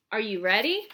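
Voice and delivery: loud eager call. Acted. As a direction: call the kids to get ready. Snowman calls to kids.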